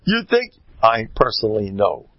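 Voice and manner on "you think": emphatic challenge. Real, not acted. Challenging the laughing audience.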